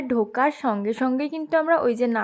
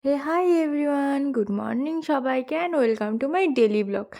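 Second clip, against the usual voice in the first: while brushing teeth; much slower than usual. Real, not acted. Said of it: "সকাল সকাল brush করতে করতেই ব্লগটা স্টার্ট করেছি".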